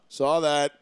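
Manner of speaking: offhand, unbothered deadpan; nonchalant. Retold or imitated. Paul calling out cheating from afar, nonchalant. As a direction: toss it off like it's nothing. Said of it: "this wicked nonchalant".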